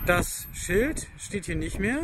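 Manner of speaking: gusty wind over the voice outdoors; wind on mic. Real, not acted. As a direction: wind blowing into the microphone. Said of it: "Sorry für den Wind".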